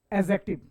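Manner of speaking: एडजेक्टिव as "ezektib", no d; silent d. Shown as a demonstration. Teacher checking the pronunciation, एडजेक्टिव with silent d. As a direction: leave the d out of एडजेक्टिव. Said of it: "क्या इसकी pronunciation होगा".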